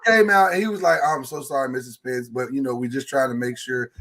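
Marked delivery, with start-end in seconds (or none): 1.0-3.9 quiet retold principal. Principal apologizes, quoted.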